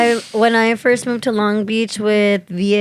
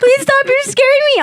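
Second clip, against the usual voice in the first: high-pitched, retold passenger's plea; scared pleading. Retelling their plea to the panicking driver, scared pleading. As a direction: plead in mock fright from the passenger seat.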